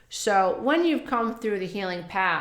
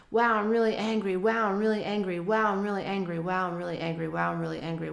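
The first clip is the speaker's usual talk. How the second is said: repeated self-talk; faster than usual. Shown as a demonstration. Coach models acknowledging anger to oneself, quick fading self-talk. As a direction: repeat it briskly, letting the energy drain away.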